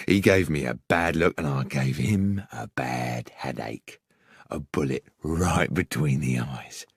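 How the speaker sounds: low, menacing gruff thug; a hint of a gruff killer; gruff villain. A narrator's reading. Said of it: "asked the gruff voice within".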